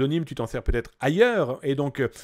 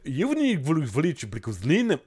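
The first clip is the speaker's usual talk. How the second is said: mock Russian accent. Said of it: "accent russe avec un petit peu de ch'ti".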